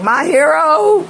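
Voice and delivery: high, slow, swooning "My hero"; mock swooning. Mock swoon to the intuitive boyfriend. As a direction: gush it like a rescued damsel. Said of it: "crying, like".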